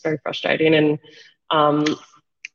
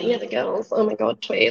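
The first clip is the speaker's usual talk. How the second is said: gushing fan voice; 5 semitones higher, 3 dB quieter than usual. Retold or imitated. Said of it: "not to sound like".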